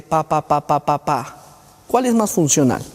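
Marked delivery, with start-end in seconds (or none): 0.0-1.4 patient's drill syllables. Retold or imitated. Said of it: "a decirte".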